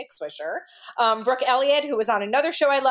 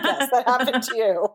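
retold amused confirmation; 2 semitones higher than usual. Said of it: "And she'll be like".

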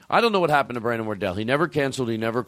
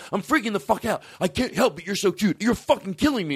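gushing at the dog; 8 semitones higher than usual. Retold or imitated. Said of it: "I go".

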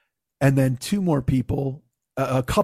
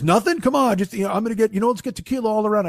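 higher, insistent imitation of a pushy buddy; acted coaxing; 6 semitones higher, faster than usual. The ace pushing tequila on a non-drinker, coaxing. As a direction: talk him into it, voice pitched up.

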